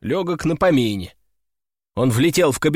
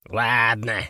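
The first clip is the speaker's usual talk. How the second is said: lower, drawn-out grudging okay; resigned sigh; 4 semitones lower than usual. A narrator's reading. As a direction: give in with a mild sigh. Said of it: "вздохнул попугай".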